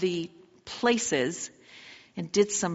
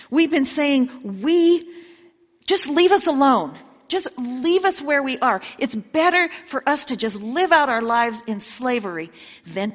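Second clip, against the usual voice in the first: exasperated complaint; 4 dB louder than usual. Acted. Israelites remind Moses they begged to stay, an exasperated loud complaint. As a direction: nag Moses, every line pushed harder. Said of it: "didn't we say to you in Egypt".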